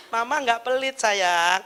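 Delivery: lightly voiced reassuring mum; soothing mother. Mother reassures sulking child, lightly acted calm. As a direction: answer the sulker patiently.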